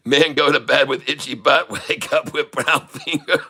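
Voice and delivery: mock Chinese accent. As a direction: fake Chinese-accented joke, laughing. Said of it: "Confucius say".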